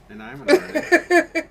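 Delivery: high, loud, laughing. Real, not acted. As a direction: crack up mid-sentence. Joking, laughing.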